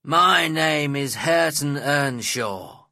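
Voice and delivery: loud, slow, angry growl. A narrator's reading. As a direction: growl it out slowly and loudly. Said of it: "growled the young man".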